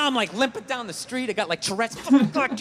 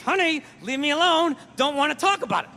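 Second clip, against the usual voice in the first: mild gritted-teeth strain, words pushed out; a restrained, tight-jawed warning to the wife; through my teeth; 3 semitones higher than usual. Retold or imitated. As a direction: hold back the anger behind the teeth. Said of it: "Talking through my teeth".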